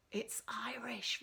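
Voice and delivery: slow breathy whisper; hushed aside to the new girl. Acted. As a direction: whisper it into her ear. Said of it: "Ross whispers in my ear".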